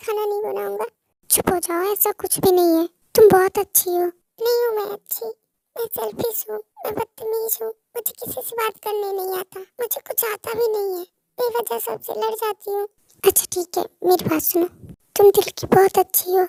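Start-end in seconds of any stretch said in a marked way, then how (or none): 4.1-12.9 crying. Acted. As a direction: sob the words out quietly. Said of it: "तुम रो क्यों रही हो?".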